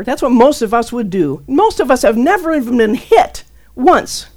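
ordinary delivery

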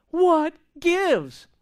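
loud frustrated "What gives?"; exasperated cry. Retold or imitated. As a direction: throw it up to God in frustration.

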